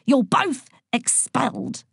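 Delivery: high, indignant rant; outraged teacher laying down a verdict; screaming teacher. A narrator's reading. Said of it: "screamed Boyle".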